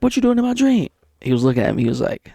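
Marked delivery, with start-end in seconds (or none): 0.0-0.9 incredulous. Retold or imitated. Shocked to see coworker in dream.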